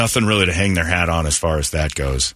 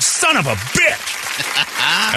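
muttered curse; 9 semitones higher, much slower than usual. Retold or imitated. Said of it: "And I'm like".

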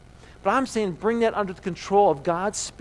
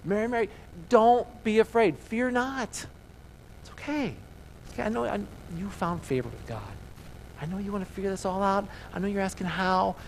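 reassuring angel; 3 semitones higher than usual. Retold or imitated. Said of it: "What does the angel do?".

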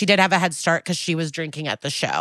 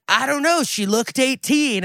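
mock excuse; 7 semitones higher than usual. Mimicking people excusing themselves, in a higher mock-innocent voice. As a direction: mimic a feigned innocence, pitched up.

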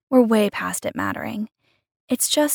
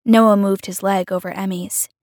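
ordinary delivery

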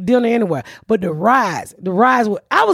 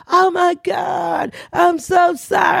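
apologetic lady; 6 semitones higher, much slower than usual. Retold or imitated. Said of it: "She's like".

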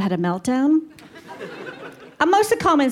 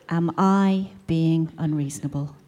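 slow, drawn-out smug mummy asking; slow smug drawl; 3 semitones lower than usual. Shown as a demonstration. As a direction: spell out the title like a whiny complaint. Forum title, drawn out.

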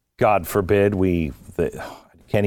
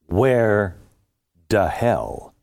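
laughing; much slower than usual. Real, not acted. Laughs, hunting for phone.

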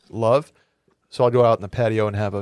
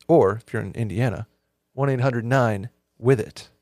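upbeat sponsor ad read; slower than usual. Acted. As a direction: pitch it like a radio spot. Host reads sponsor ad.

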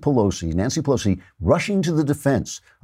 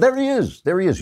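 excited greeting; 10 semitones higher than usual. Real, not acted.

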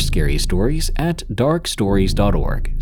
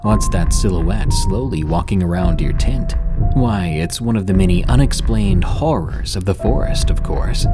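ominous late night radio; 3 semitones lower than usual. Acted. Host opens horror podcast.

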